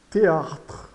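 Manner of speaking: "théâtre" ending on TR, no final vowel; silent final E. Shown as a demonstration. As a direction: say "théâtre" with the last E mute. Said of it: "E E final é mudo".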